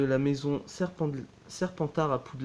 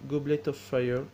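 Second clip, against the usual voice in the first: "Goblet of Fire" said in a clumsy English accent, "fire" stretched; French speaker trying an English accent on "Goblet of Fire". Real, not acted. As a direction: read the English title with a shaky English accent. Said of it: "désolé pour mon accent un petit peu horrible".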